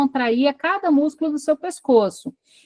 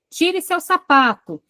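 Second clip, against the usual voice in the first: a touch higher, slow, mimicking the mother's "Tire seu sapato"; 4 semitones higher, slower than usual. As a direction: slowly echo a mother's command.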